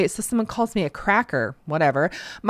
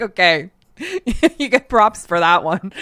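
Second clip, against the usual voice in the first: laughing props; 3 dB louder than usual. Retold or imitated. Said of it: "such a burn that I'm just like".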